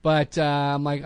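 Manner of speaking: ordinary talk, nothing marked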